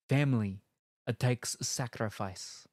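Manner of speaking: slow, weighty delivery; dramatic trailer line. Acted. Ending the blurb, slow dramatic tagline. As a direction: land it like a tagline.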